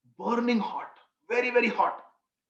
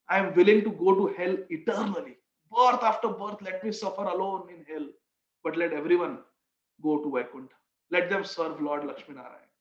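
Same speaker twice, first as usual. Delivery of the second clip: humble and sincere; 2 semitones lower than usual. Acted. Humble disciple answering his guru.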